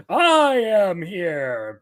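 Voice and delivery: slow, booming hero proclamation; All Might impression. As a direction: drag out each word like a grand hero. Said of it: "with his best All Might impersonation".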